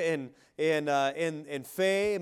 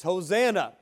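raised, ringing Hosanna, higher and louder; exclamation of praise; 4 semitones higher, 6 dB louder than usual. Shown as a demonstration. Preacher showing the church how to praise, loud exclamation. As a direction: call out Hosanna with rising joy. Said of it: "There should be an exclamation of praise".

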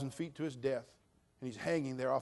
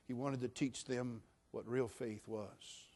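usual speaking voice

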